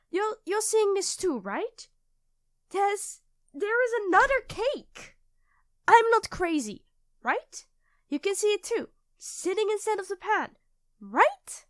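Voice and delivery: high, frantic pleading for reassurance; panicked. Acted. Asking her partner if she's seeing things, high and frantic. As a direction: beg to be told you're not crazy.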